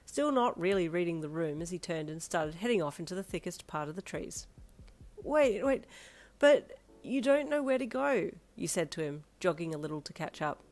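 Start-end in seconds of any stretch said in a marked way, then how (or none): 5.2-8.3 high, protesting wail; plead, stretching the words; raised, bewildered protest; calling after him. Acted. Calling after him, still upset.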